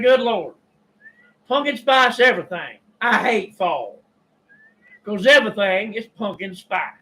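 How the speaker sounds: venting to yourself, good and fed up; muttering aloud in the store, exasperated by the pumpkin spice; exasperated outburst. Retold or imitated. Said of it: "especially when you're a little exasperated".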